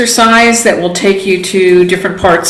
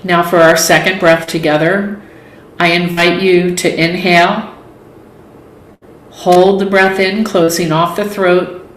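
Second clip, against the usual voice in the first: guided meditation. Acted. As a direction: lead them calmly through each breath, leaving space between phrases. Leads a yoga nidra relaxation.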